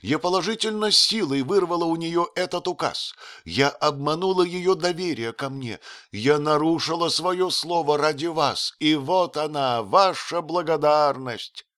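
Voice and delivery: высокий голос с упрёком; упрекать с обидой, к концу медленнее; оскорблённая графиня. Acted. Rosen reproaches Otto. (графиня упрекает принца)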